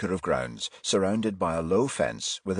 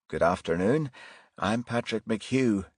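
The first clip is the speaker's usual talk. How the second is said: soft Irish brogue; 2 semitones higher than usual. Acted. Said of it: "he said in a soft Irish brogue".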